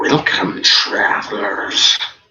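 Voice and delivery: sputtering, gurgling, spitting monster voice. Game master voicing a creature that rises before the party, gurgling and spitting. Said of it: "voice gurgles and spits".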